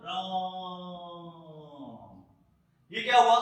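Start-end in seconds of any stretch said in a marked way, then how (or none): 0.1-1.3 elongated pluta vowel in राम, drawn out; drawn-out Raam. Shown as a demonstration. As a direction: stretch राम long and sung, like a dying cry. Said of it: "तो कैसे निकला".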